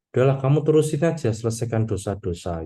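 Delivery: pessimistic dismissal. Retold or imitated. Jesus dismissing sinners in a quick, pessimistic tone. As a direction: wave them on, fed up, then let it drop. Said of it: "pesimis gitu ya".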